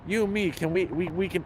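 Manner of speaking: lightly imitated Indian accent, soft; a hint of an Indian accent on a quote; retold proposition in a light Indian accent. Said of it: "Indian accent".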